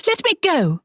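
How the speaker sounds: high, strained cry through a hand; mock muffled yell; muffled shout. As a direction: try to shout while gagged. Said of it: "she tried to shout".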